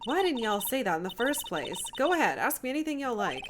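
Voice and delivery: eager Southern twang, opening loud; suddenly keen, in a put-on Southern accent. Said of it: "I don't like doing Southern accents at all".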